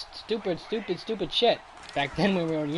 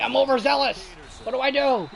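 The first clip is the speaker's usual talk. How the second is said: mock overzealous parent; 8 semitones higher, 4 dB louder than usual. Mock strict parent quote.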